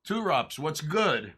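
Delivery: hyped welcome to a chat regular; excited greeting. Real, not acted. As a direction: call out the viewer's name with a grin.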